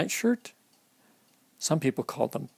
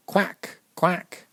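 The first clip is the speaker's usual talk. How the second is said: duck quack; 5 semitones higher than usual. Shown as a demonstration. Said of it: "That's the sound a duck makes".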